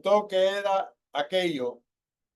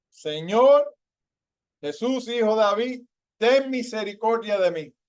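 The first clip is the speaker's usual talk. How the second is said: shouting plea; 4 semitones higher than usual. Retold or imitated. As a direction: shout it like a blind man begging Jesus. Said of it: "que estaba gritando". (súplica a gritos, más fuerte y aguda)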